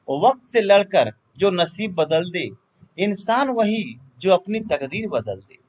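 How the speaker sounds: declaimed motivational couplet; verse recitation. Acted. Teacher reciting an inspiring verse to students, declamatory. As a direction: recite it in measured phrases, pausing between halves.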